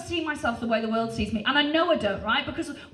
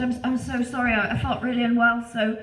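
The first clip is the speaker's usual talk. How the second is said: fake ill voice; 3 semitones lower than usual. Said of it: "I put on my best ill voice".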